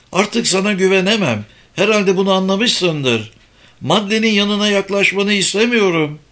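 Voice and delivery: high-pitched indignant tirade; outraged, accusing mother; angry mother. A narrator's reading. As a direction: berate him with pitch held high. Mother berates the man, acted quarrel.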